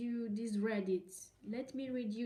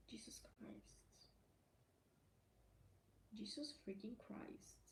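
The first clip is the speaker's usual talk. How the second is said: much softer whispered exasperation; under-breath whisper; 19 dB quieter than usual. Real, not acted. Vlogger mutters disbelief to herself, whispered.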